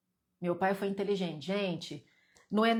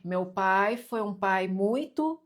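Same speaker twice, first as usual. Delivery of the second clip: slow, louder, with "muito" stretched and left open; fill-in-the-blank prompt; 5 dB louder, much slower than usual. Shown as a demonstration. Teacher has viewers complete it about their father, prompting with a drawn-out "muito". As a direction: drag out "muito" as an unfinished cue.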